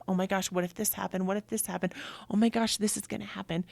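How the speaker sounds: quick, mildly panicky what-ifs; acted anxious fear. Voicing fear of the unknown, anxious and hurried. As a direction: rush through imagined worries, lightly fretful. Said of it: "that fear of".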